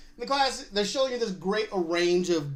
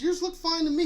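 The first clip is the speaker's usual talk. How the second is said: friend's voice; 11 semitones higher than usual. Retold or imitated. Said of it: "He goes".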